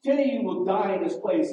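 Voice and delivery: a commandant screaming the sentence at lined-up prisoners; commandant's scream. Retold or imitated. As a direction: shout it down at the prisoners like a camp commandant. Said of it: "He screamed out".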